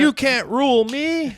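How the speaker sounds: high, loud, laughing shout; rebellious shout. Retold or imitated. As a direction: yell it like a defiant rock star. S0 acting out a singer from an album cover.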